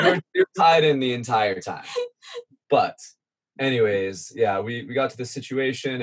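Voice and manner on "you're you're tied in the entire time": laughing insistence. Real, not acted.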